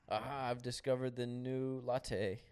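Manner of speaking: slow whispered eureka; mock woke scientist. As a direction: whisper a smug discovery slowly. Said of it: "a woke scientist who was like".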